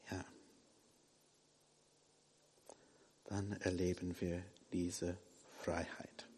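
breathy hushed whisper of freedom. Acted. Preacher whispering the promise of freedom to the church. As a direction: drop to a whisper for the congregation.

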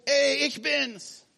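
high, slow call across the water. Pretend. Jesus calls across the stormy water to his disciples, calling out. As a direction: call out slowly to be heard far off. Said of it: "er ruft".

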